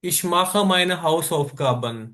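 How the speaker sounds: very slow, each word separated; slow example sentence. Shown as a demonstration. Teacher reading example sentence to class, very slow. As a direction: read the example slowly. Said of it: "इसके Beispiele देख लेते हैं".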